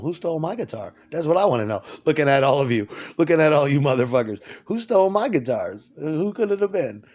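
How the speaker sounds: accusing demand. Acted. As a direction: call everyone out over a theft. Acted demand over a stolen guitar.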